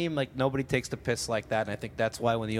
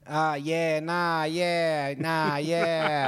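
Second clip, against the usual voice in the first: put-on Australian accent; 3 semitones higher, much slower than usual. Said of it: "We're not in Queensland".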